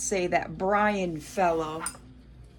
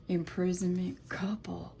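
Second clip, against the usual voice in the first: whispering; 7 dB quieter than usual. Real, not acted. Murmuring card meanings.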